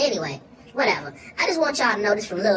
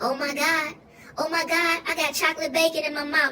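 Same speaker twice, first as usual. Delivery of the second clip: higher, delighted marvel at the taste; higher amazed "chocolate bacon"; 7 semitones higher than usual. Retold or imitated. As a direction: gush over the flavor.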